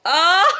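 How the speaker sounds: high, loud rising cry of disgust. Real, not acted. Vlogger recoiling from something disgusting, revolted cry.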